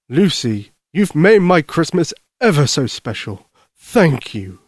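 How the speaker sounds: lightly voiced, heartfelt Santa; grateful Santa Claus. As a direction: thank a child sincerely as Santa.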